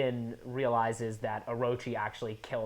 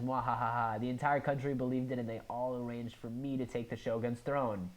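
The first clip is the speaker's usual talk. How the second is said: mad scientist. Retold or imitated. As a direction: savour it like an evil schemer. Reading Orochi's villain speech.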